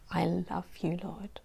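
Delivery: breathy whisper of "I love you, Lord"; whispered devotion. Acted. Speaking to the Lord in prayer, a hushed whisper. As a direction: whisper it as an intimate confession.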